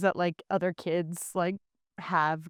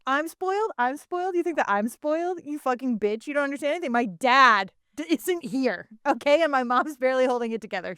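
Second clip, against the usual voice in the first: high-pitched, indignant mock meltdown; hammed-up outrage, pitched up and rising on the questions; Molly; 3 semitones higher than usual. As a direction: act out an incredulous, psycho-energy rant. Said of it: "kinda the psycho energy that Molly has".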